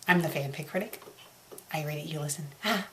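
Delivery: ordinary delivery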